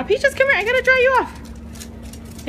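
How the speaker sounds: high sing-song pet voice; dog-talk voice. Real, not acted. Calling dog after bath.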